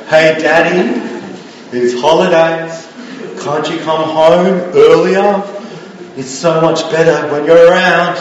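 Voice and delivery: lightly voiced pleading child; manipulative kid. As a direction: coax Daddy a little, pausing between pleas. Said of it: "kids who emotionally manipulate you".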